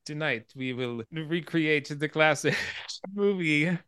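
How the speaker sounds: slow, mock Hungarian accent. Man reenacting a classic film, hammy Hungarian accent. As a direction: put on a deliberate Hungarian accent, breaking into a laugh. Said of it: "he's got this Hungarian accent".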